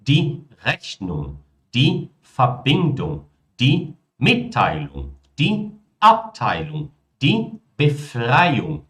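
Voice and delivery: die Rechnung ending in a soft ung, no g; slow demo, ung never stressed. Shown as a demonstration. Teacher showing viewers the weak ung ending. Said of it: "Pronuncia, então, só como ung".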